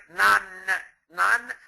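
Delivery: nan said as one clipped syllable, no final E; dropped E muet. Shown as a demonstration. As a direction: banane cut short to nan, nan. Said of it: "si on ne compte pas le E".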